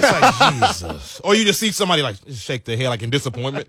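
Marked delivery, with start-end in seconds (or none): 0.7-1.2 low, slow, soft drawn-out groan; groaning crowd. Shown as a demonstration. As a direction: drag it out like a sighing crowd. Crowd disappointment.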